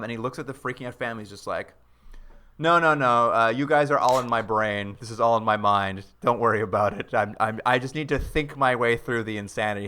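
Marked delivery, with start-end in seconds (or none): 2.6-9.8 imitating an unruffled reassurer; lightly acted calm, brushing off the panic; super calm. Actor reassures the freaking-out family, mock super calm. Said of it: "Luke Perry's super calm".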